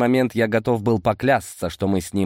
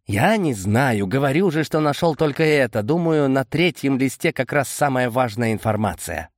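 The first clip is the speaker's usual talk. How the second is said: lightly voiced, higher Boris, on the defensive; a touch higher, defending what he found; 5 semitones higher than usual. Boris tells Amadei he found only this, mildly defensive.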